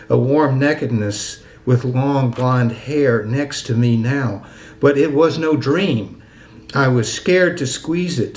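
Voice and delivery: measured, lingering poem recital; deliberate verse cadence with drawn-out line endings; poetry reading. Acted. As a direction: read your poem slowly, phrase by phrase. Reads own poem aloud.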